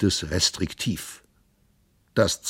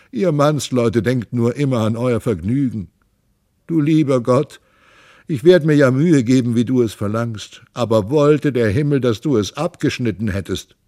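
complaining lament; 4 semitones higher, 4 dB louder than usual. Acted. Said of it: "jammerte sie".

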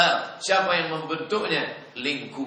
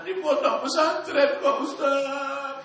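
mother's answer; 13 semitones higher, slower than usual. Retold or imitated. Ibu menjawab ustaz.

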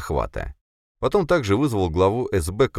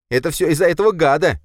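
loud, much higher accusing shout; angry accusation; 11 semitones higher, 6 dB louder, faster than usual. Acted. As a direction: point the finger furiously. Boris blames narrator angrily.

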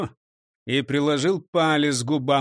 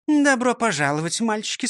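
with a smirk; 6 semitones higher than usual. A narrator's reading. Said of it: "сказала она с усмешкой".

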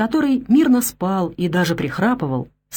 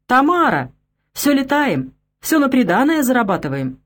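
rowdy calling out; 6 semitones higher than usual. Acted. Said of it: "послышалось со всех сторон". (громкие насмешливые выкрики)

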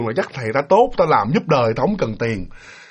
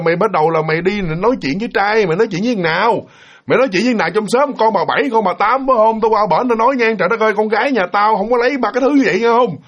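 retold angry scolding, a bit higher and fast; mother scolding; 3 semitones higher than usual. Mother catching her daughter talking to no one, angry scolding. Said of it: "bà chạy ra bà chửi".

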